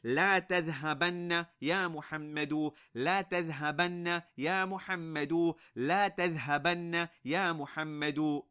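تذهبن said with a held, doubled noon: tadhhabanna; emphatic prohibition. Shown as a demonstration. Teacher demonstrating a strong don't go to students. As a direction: press لا and lengthen the nn in تذهبن. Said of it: "You want to emphasize that he must not go".

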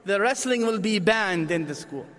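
dramatic Arab mom rallying to protest. Retold or imitated. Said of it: "the Arab mom".

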